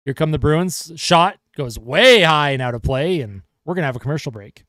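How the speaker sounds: steady hockey play-by-play call; live broadcast commentator voice; play-by-play commentary. Acted. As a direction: call the game for the viewers.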